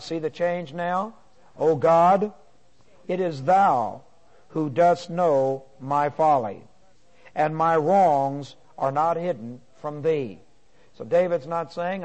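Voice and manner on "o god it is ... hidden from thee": emphatic opening, then slower measured reading; confident prayer to God. Retold or imitated. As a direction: declaim it as a psalm, phrase by phrase. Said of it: "some concept of his confidence in God".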